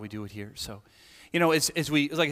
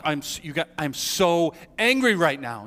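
angry; 3 dB louder than usual. Acted. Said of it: "and I look angry".

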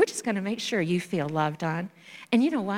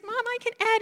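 high, eager announcement; a boy bursting to tell Mom; proud child. Retold or imitated. Boy tells his mother.

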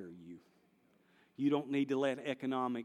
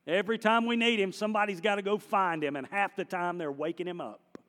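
raised exasperated; 4 semitones higher, 4 dB louder than usual. Real, not acted. Preacher mock-exasperated about Jesus.

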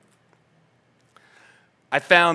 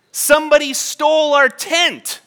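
laughing punchline; 12 semitones higher, 9 dB louder than usual. Acted.

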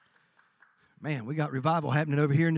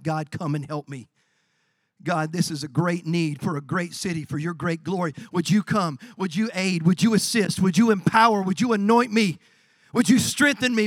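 pleading prayer; 3 dB louder than usual. Acted. Nehemiah asking God for help, pleading and building. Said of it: "he cried out, he called out to God".

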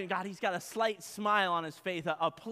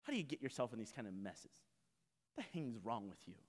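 muttering; 11 semitones lower, 15 dB quieter, faster than usual. Retold or imitated. Scolding the stuck sheep.

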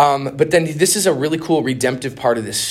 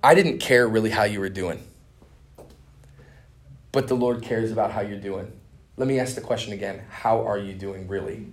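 choking up; 3 semitones lower than usual. Retold or imitated. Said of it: "I'm, like, choking up".

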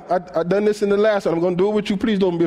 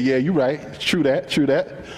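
low knowing Jesus; 4 semitones lower than usual. Pretend. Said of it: "he said".

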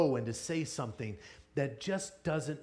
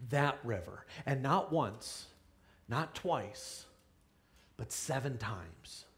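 softer and lower, with weighty pauses; hushed, deliberate instruction; 4 semitones lower, 6 dB quieter, slower than usual. Acted. Prophet telling Naaman how often to wash, hushed and deliberate. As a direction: drop it low and count it out slowly. Elisha's instruction, spelled out with gravity.

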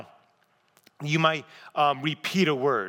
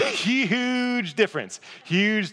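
laughing; 9 semitones higher, 3 dB louder, much slower than usual. Real, not acted. Laughing at the potato example.

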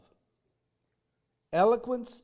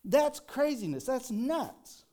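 shocked outburst, pitch jumping higher; mock shock; 7 semitones higher, 3 dB louder, slower than usual. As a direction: pretend the verse stuns you. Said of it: "you're gonna go".

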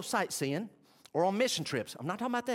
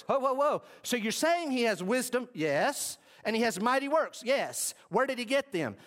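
mock surprise; 7 semitones higher than usual. Mock questioning of the crowd.

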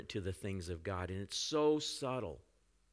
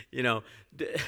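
breaking into laughter; 3 semitones higher than usual. Real, not acted. Preacher tries to resume the sermon, breaks up laughing. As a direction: start to speak, then crack up.

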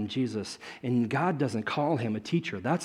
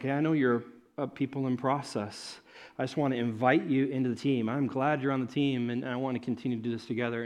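gentle invitation; 4 dB quieter than usual. Retold or imitated. Jesus voiced inviting disciples.

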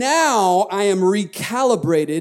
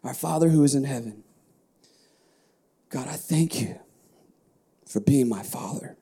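sample prayer; 3 semitones lower than usual. Shown as a demonstration. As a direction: pray it gently, as if alone with God. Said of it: "You may say something like this".

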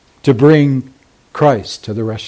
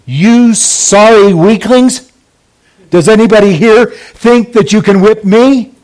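drill sergeant yell; 7 semitones higher, 4 dB louder than usual. Retold or imitated. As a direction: bellow at the recruits like a drill sergeant. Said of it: "he screams to them".

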